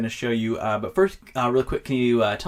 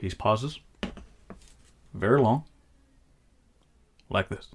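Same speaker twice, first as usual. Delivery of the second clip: put-on shaky voice with long pauses; 3 semitones lower, 3 dB quieter than usual. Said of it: "better impression than mine".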